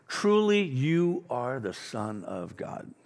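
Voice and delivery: slow, hushed "Truly you are the Son of God"; bow down in worship; reverent awe. Retold or imitated. Disciples in the boat worshiping Jesus, slow and hushed.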